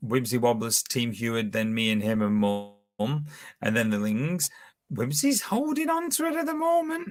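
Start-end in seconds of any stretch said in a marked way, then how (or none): 4.9-7.1 very high-pitched voice, rising steadily along the line. Reading out the quiz standings between questions: high-pitched voice. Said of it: "that was a bit high pitched voice".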